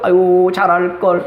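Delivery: slow sighing regret, mildly mournful; regretful sigh. Retold or imitated. Preacher voicing a child's regret after parents die, slow sigh. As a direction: let out a slow, mild 아유 of regret.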